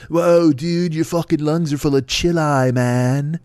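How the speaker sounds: lightly voiced stoned beatnik, drawn out; a hint of a spaced-out stoner marveling; laid-back stoner dude, mildly put on. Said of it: "some crazy beatnik scientist".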